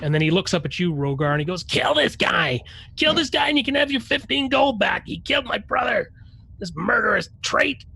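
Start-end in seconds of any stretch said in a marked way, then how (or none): 1.6-7.8 high, loud, urgent yelling; desperate dwarf shout. Acted. Dwarf yells to Rogar about his killed brother, outraged shout. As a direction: yell it in outrage, pleading for a kill. Game master acts dwarf urging Rogar to kill.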